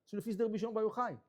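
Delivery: ordinary talk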